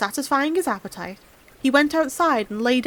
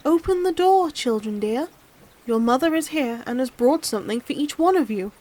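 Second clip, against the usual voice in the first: lightly sweetened wolf voice; wolf putting on a gentle tone; wolf's soft voice; 3 semitones higher than usual. Acted. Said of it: "making his voice soft".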